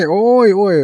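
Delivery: high mock wail of a beaten child; imitated child wailing. Monk mimics the beaten child's high wail. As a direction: wail it like a crying kid.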